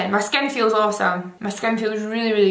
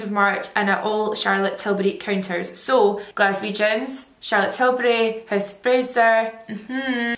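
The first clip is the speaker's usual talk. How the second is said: talking through sheet mask; wearing a face mask. Real, not acted. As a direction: face covered, lips free. Seen 3: White mask covers whole face throughout; mouth opening leaves lips free.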